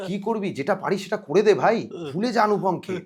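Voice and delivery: retold self pep talk. Nervous actor talking to himself before the scene, retold pep talk. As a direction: push yourself to just get it done. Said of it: "নিজেকে নিজের সঙ্গে কথা বলছি".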